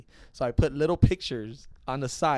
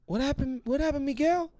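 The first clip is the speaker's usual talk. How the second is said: high mocking voice of the boss; mock scolding boss; older dude scolding; 13 semitones higher than usual. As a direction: needle him like the boss who picked you up. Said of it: "the older dude's like".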